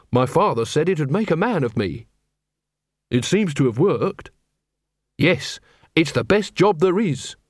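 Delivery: earnest, proud young copper, lightly voiced; a lightly voiced keen young man; Carrot. A narrator's reading.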